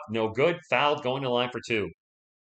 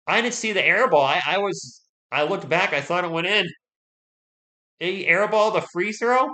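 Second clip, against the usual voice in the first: lingering disbelief; 7 semitones higher, 6 dB louder than usual. Real, not acted. Still shocked at airball.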